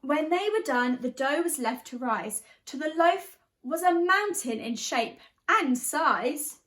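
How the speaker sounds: lively storybook reading in rhyme; teacher reading a picture book, animated; reading to children. A narrator's reading. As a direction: bounce the verses for a class. Reads picture book aloud.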